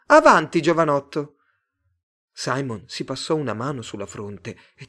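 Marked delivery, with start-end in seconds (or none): 0.1-1.4 high, loud cheer; bright-pitched, forceful call to come on; shouted urging. A narrator's reading. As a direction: egg him on with a yell. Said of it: "gridò un'altra".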